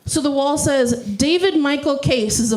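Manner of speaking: rhythmic spoken-word recital; mock-earnest slam delivery; parody slam poetry. Shown as a demonstration. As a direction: recite it with a poet's beat. Performs parody poem.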